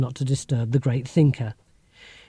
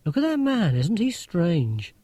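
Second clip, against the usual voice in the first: 1 imitating Mum; 2 semitones higher than usual. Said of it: "She'll say things like".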